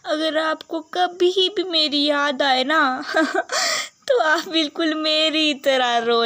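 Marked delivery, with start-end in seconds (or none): 0.0-3.0 louder, crying-laughing plea; tearful. Acted. Bride tearfully telling her uncle not to cry. 3.1-4.0 high squeal of laugh and sob; crying laugh. Acted. Bride laugh-crying at her farewell.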